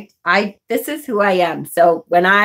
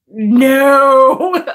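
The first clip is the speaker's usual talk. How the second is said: firm no; 5 semitones higher, 5 dB louder than usual. Retold or imitated. Refusing the patient's hug.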